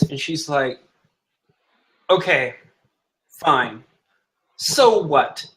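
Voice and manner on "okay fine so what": mildly defiant confession, rising on the challenge; defiant accusation. Acted. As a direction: admit it with mounting indignation. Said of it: "starts spitting out accusations".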